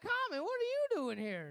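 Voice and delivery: high, starstruck call to a celebrity; excited greeting. Retold or imitated. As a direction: act thrilled to spot a famous rapper. Greeting Common in fake story.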